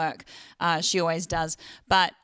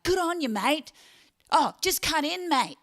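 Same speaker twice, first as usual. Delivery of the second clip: mock-friendly "mate", pitched higher; sarcastic road rage; 9 semitones higher than usual. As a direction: needle a bad driver sarcastically. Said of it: "aggressive driver".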